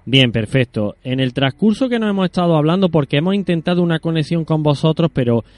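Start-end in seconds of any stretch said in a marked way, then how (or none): 1.0-5.4 louder, pushing through a bad line; speaking up. Real, not acted. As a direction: raise your voice so they hear. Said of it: "pero te oigo muy mal". (hablando más alto por la mala conexión)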